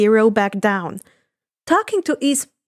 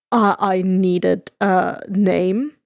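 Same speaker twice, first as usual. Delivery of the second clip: lightly voiced sheepish Giran; 5 semitones lower, much slower than usual.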